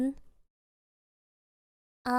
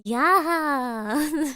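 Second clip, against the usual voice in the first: long drawn-out mock yeah; hammed-up, lingering agreement; imitated yeah. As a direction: stretch it out, mimicking him. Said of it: "And he's like".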